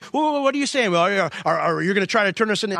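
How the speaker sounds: a hint of an indignant listener pushing back; mock objection. Pastor voicing a church member's objection, mildly indignant.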